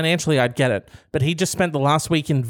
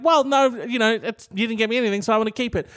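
higher, lightly acted protest; girlfriend protesting; 6 semitones higher than usual. Girlfriend justifying keeping the gift, higher mild protest. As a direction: argue it back in a raised-pitch girlfriend voice.

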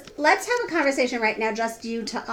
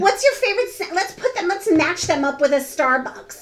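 high, affected survey question; mock girly writer; 4 semitones higher than usual. Co-host mocking how the writer polled friends, mock girly. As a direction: imitate a ditzy magazine writer.

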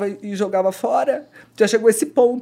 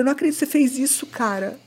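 higher-pitched, quick reproach; retold indignant outburst; 5 semitones higher, 4 dB louder than usual. Woman confronting boyfriend over her smashed phone, indignant. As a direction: relive an outraged confrontation.

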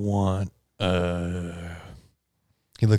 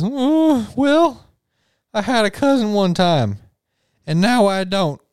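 high, jittery waiter voice; nervous waiter; 8 semitones higher, 3 dB louder, slower than usual. Acted. Waiter answering the party's call, high and jumpy. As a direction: squeak it out like a nervous little waiter.

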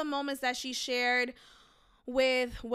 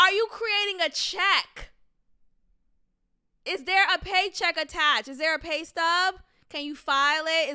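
incredulous questions; 3 semitones higher, 4 dB louder than usual. Real, not acted. Second round of mock grilling.

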